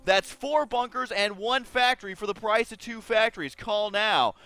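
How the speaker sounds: light TV pitchman sell; a hint of infomercial announcer. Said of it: "that was my infomercial voice".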